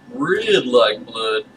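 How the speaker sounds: "red like blood" drawn out very slowly, leaning on red; odd emphasis. Acted. Chuck explains the red stain to the guest, very slowly with odd emphasis. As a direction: stretch "red like blood" slowly, weighing each word. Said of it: "I emphasize words oddly".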